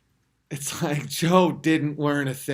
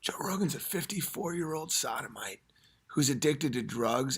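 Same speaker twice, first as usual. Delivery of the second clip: much softer, hushed rant; quiet ranting; 3 semitones lower, 6 dB quieter than usual. Real, not acted. Comic hushing his rant so the kids sleep. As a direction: rant under your breath. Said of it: "I'll whisper it".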